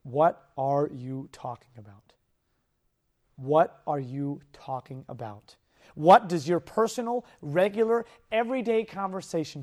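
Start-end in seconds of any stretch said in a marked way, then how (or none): 0.0-2.1 lower, slow, earnest question; sincere low question; serious question. Shown as a demonstration. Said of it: "I am seriously asking you". 3.4-5.6 lower, slow, earnest question; sincere low question; serious question. Shown as a demonstration. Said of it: "I am seriously asking you".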